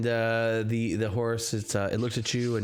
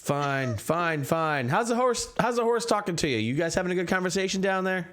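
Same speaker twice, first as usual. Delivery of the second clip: grumbling cab driver; 10 semitones higher than usual. Acted. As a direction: give in with a sigh, then needle them. Driver grumbles after being paid.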